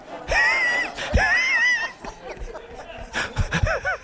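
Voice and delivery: a big high burst of laughter. Real, not acted. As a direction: let a huge laugh burst out. Big laugh at own joke.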